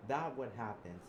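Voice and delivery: angry threat. Acted.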